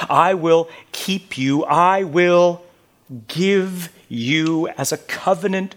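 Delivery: scripture reading. Acted. Preacher reads the Lord's call to the servant, solemn. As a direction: proclaim each line, then let it settle.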